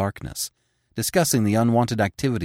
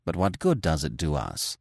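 lower, protesting man's voice; expostulating man; 3 semitones lower, 4 dB quieter than usual. Acted. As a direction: object with quiet alarm. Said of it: "the man expostulated".

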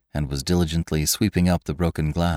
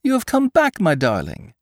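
overjoyed; 9 semitones higher than usual. A narrator's reading. Girl overjoyed at his return.

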